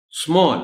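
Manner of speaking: اسمال spoken as a teacher's model; pronunciation demo. Shown as a demonstration. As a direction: model اسمال with a long open vowel. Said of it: "اسی طرح اسمال ہے".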